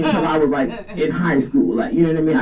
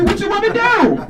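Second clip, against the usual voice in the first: much higher, squeaky mock flirt; hammed-up flirt, pitched way up; 3 dB louder than usual. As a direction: squeak it out like a teasing pickup line. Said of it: "And I'm like".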